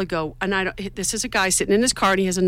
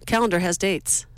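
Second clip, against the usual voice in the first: retelling joke; 3 semitones higher than usual. Retold or imitated. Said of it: "Hey, if you're single".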